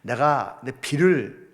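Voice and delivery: lightly voiced calm deity; God's voice. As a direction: speak as a patient God to his child. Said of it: "라고 설명해 주시고".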